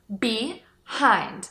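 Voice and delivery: Behind with the h of the second syllable audible; h sounded. Shown as a demonstration. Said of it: "A segunda sílaba começa com a letra H".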